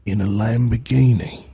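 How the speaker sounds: mock British action-star voice; Jason Statham. Streamer imitating an action star, put-on British voice. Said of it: "Jason Statham".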